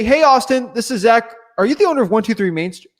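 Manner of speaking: lightly brighter, upbeat cold caller; friendly caller demo. Shown as a demonstration. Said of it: "If you say".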